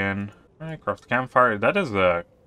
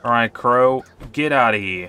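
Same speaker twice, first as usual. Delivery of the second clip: raised voice, calling out to a crow; 3 semitones higher, 5 dB louder than usual. Pretend. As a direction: shoo the crow away loudly. Shooing a crow in game.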